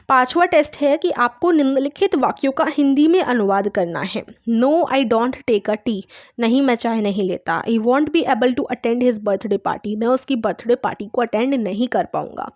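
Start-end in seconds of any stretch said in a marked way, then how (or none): 4.5-6.0 very slow, each word spaced out; slow dictation. Shown as a demonstration. Teacher dictating an English sentence to her class, very slowly. 7.6-10.0 very slow, each word spaced out; slow dictation. Shown as a demonstration. Teacher dictating an English sentence to her class, very slowly.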